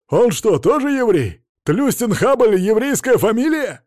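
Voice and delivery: возмущённый вопль; yelling. A narrator's reading. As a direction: howl it in disbelief. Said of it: "завопил Мамонов".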